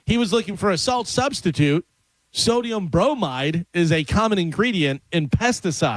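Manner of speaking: measured radio news read; deliberate read-aloud cadence; news item read. Acted. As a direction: read the odd story out to listeners.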